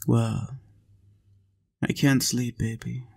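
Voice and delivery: ordinary delivery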